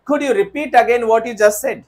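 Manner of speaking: slow, deliberate faulty question; slow wrong example. Shown as a demonstration. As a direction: read the wrong question slowly. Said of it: "नहीं sir, हम कहेंगे".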